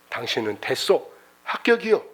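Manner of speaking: a hint of a grave old boss; low, measured verdict then a lift; lightly voiced chairman. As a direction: chairman granting the job.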